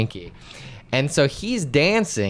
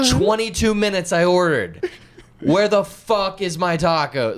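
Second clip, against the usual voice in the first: proper Karen; 7 semitones higher than usual. Retold or imitated. Angry customer ranting at the cashier, high-pitched. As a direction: demand the taco like an entitled Karen. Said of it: "a proper Karen".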